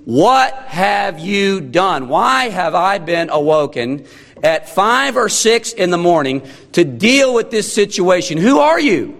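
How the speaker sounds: mildly irritated, rising to a high final question; exasperated questioning. Acted. Preacher as Pilate woken early to question Jesus, exasperated. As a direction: demand answers, building in exasperation.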